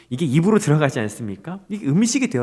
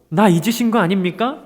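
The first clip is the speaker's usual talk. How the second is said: higher, pleading question to God; plaintive complaint; 6 semitones higher than usual. Retold or imitated. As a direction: lightly act a hurt plea. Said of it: "이러는 거예요".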